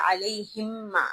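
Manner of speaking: علیہم ما joined, with the meem held long; idgham demo. Shown as a demonstration. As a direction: merge the meems in علیہم ما. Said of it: "اس کو ہم پورا ساتھ میں پڑھ دیں گے،".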